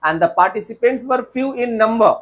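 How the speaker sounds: slow faulty sentence; slow wrong example. Shown as a demonstration. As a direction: read the wrong line slowly. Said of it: "No sir".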